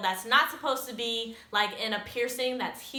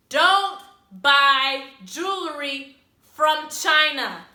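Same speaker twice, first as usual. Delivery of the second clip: "don't buy jewelry from China" slow and loud, word by word; emphatic warning; 3 semitones higher, 6 dB louder, much slower than usual. Real, not acted. Vlogger giving viewers the moral, "don't buy jewelry from China" slowly hammered home.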